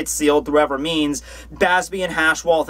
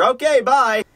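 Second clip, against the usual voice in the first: high, quick mock sign-off; breezy messenger; 8 semitones higher, 3 dB louder, slower than usual. Messenger leaving a notice at the village, high mock sign-off. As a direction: toss off a cheery high goodbye. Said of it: "just be like".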